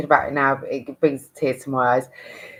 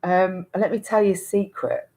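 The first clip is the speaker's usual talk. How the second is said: teacher's call; 4 semitones higher, 4 dB louder than usual. Retold or imitated. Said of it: "she was like".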